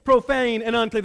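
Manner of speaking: refuse, offended at the thought; indignant protest. Acted. Peter protesting to the Lord, indignant and loud. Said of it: "That's how he would say it".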